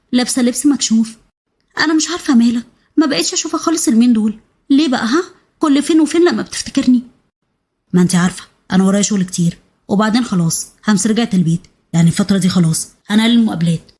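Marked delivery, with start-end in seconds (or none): 1.8-7.0 higher, pouty woman's voice; complaining mistress. Acted. Mistress complains to her lover. 7.9-13.9 lightly voiced man, slightly lower; a hint of a man brushing her off; evasive lover.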